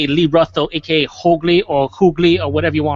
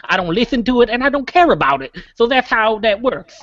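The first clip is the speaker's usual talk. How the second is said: cartoon buffalo voice; 3 semitones higher than usual. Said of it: "in a cartoon buffalo voice".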